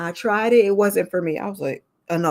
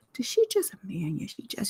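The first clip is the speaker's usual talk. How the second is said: very quiet, whispered chatter; 10 dB quieter than usual. Retelling how the officers reacted among themselves, imitating people whispering. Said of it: "So they whispering, like".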